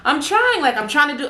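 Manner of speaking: retold desperate reply. Struggling underwater, answering guides.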